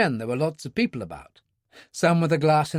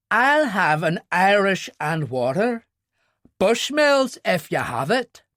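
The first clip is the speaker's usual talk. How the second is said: put-on Ulster accent laid on deliberately, slowed; thick Ulster accent; 4 semitones higher, 3 dB louder, slower than usual. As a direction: lean hard into the Ulster accent to needle him. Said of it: "He had deliberately stressed his Ulster accent".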